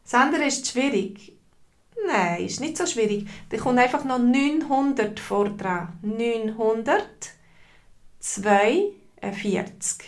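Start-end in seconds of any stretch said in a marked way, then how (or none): 6.0-10.1 slow whispered number. Shown as a demonstration. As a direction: breathe the number out slowly, no voice. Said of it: "teacher models number". (langsam geflüstert)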